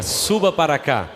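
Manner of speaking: mock solemn prophet; hammed-up prophet voice. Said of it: "com voz de profeta".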